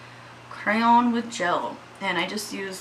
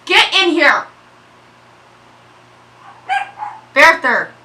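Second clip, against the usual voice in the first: loud, high commanding shout; mama voice; 9 semitones higher, 13 dB louder, slower than usual. Real, not acted. Mama orders her dogs inside, yelling. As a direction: yell the dogs indoors. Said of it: "I had to use my mama voice".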